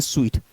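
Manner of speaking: स्वीट said "sweet"; correct pronunciation. Shown as a demonstration. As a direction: read suite as स्वीट, with W and long EE. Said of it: "इसको पढ़ते हैं".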